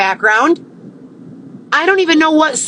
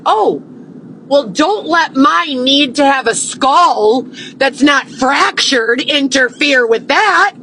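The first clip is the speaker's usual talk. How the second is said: bitter sarcasm; 3 semitones higher than usual. Real, not acted. Sarcastic reply.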